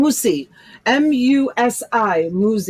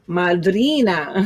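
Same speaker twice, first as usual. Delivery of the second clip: drawn-out Italian-accented word; slow, playful Italian accent; 2 semitones lower than usual. Shown as a demonstration. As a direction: stretch it out with an Italian flourish. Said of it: "I said it with my Italian accent".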